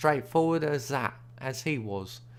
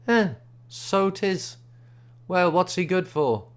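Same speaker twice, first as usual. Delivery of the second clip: stranger's voice; 6 semitones higher, 4 dB louder than usual. A narrator's reading. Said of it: "and says".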